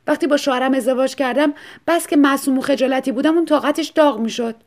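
shy wife. Acted. Wife figure in story. (صدای کمی زیرتر و شرمگین زن)

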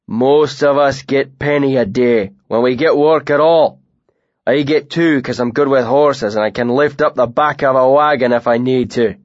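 a big bearded man feigning friendliness; lightly voiced northern bully; Tam, northern brute.

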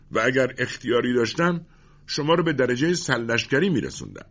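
high-pitched, impassioned comrade's plea; Radoub, fervent defender. A narrator's reading. (دفاع پرشور با صدای زیر)

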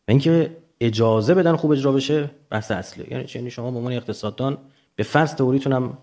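normal talking voice

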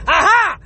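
sudden exclaimed AHA as if catching someone; triumphant aha. Acted. Mother catches the dodging child.

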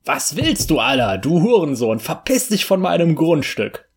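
laut pöbeln, gegen Ende höher; wütend schimpfen. Acted. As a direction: den Eindringling anschreien. Rainer beschimpft Nachbarn wütend. (Rainer pöbelt wütend vom Grundstück)

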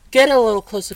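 a loud summons to lean in; loud beckoning call. Pretend. Vlogger loudly calls viewers closer for a secret. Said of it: "this is probably gonna be a running gag".

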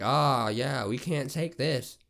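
loud, drawn-out imitation of a manager; mock manager refusal.

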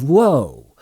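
a loud startled whoa; surprised shout. A narrator's reading. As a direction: yelp as the splash hits you. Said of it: "a shout of".

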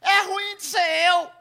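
high, slow shouted denial; defensive shout. Retold or imitated. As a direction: yell back up the hill to deny it. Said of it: "ele gritou lá de baixo, querendo se defender".

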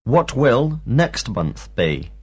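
slow, careful drill question; slow teacher question. Shown as a demonstration. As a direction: pace it slowly so pupils follow. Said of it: "teacher drilling questions".

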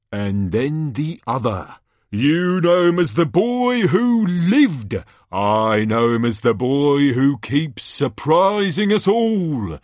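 slow, teasing build-up rising in pitch; showman's drawn-out introduction; excited tournament announcer. Acted. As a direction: tease the crowd before the big name. Announcer builds to last champion.

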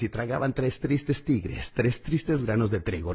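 slow, every consonant crisp; slow and precise, no pen; clear slow tongue twister. Shown as a demonstration. Coach gives the clean take after the pen take. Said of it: "Lo repites una y otra vez".

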